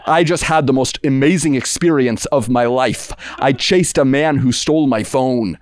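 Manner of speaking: imitating a drunk carefully over-enunciating; lightly put-on drunk trying to sound sober; drunk feigning sobriety. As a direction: act tipsy but overly proper. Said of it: "like a drunk person trying not to sound drunk sounds like Benedict Cumberbatch".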